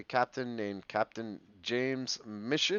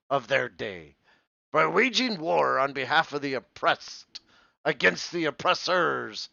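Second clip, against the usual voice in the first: lightly voiced old pirate; 3 dB louder than usual. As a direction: read it like a salty pirate, lightly. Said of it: "my pirate voice".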